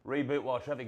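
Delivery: winded after the yoga, panting between phrases; out of breath. Real, not acted. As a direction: talk while still catching your breath. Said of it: "you can tell I'm out of breath".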